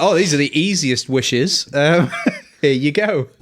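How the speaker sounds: slow, light, smug genie voice; amused genie. Retold or imitated. Genie granting a princess's trivial wishes, lightly amused. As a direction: hand it over like a bored genie.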